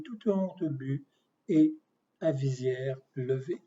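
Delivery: measured, declaimed poem reading; poetry recital. Acted. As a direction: recite the poem with deliberate phrasing and pauses. Récite son poème Liberté interne. (récitation de poème, posée et déclamée)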